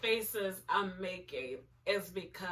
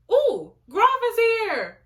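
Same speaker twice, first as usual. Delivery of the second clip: much higher, loud excited ooh; thrilled squeal; 13 semitones higher, 11 dB louder than usual. Real, not acted. Fan thrilled as a favourite character appears, squealing. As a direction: gush with delight.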